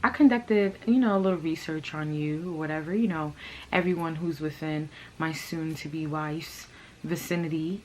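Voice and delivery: lightly voiced slow smooth talker; a hint of a man working the room; smooth talker imitation. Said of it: "this is how he's talking, like Lemuel Plummer".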